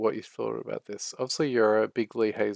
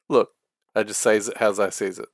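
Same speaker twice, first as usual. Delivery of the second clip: put-on southern accent; 7 dB louder than usual. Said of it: "I'm doing a nothing attempt at a southern accent".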